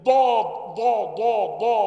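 slow ضا pressed at the front; wrong dad drill. Shown as a demonstration. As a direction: repeat ضا with the tongue tip pressed. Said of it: "لو قلت مثلًا إيه". (تكرار الضاد بنطق خاطئ)

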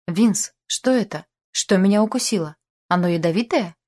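hammed-up worry of a bitten angler; mock alarm. Mimicking Michael's alarm while fishing.

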